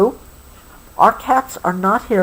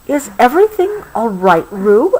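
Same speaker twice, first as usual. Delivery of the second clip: gentle; 2 semitones higher than usual. Acted. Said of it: "asked Kanga gently".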